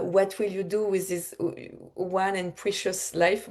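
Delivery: slow, savoured English with a French accent. Shown as a demonstration. Speaker reciting a cherished quote to her audience, in slow French-accented English. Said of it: "mon accent anglais".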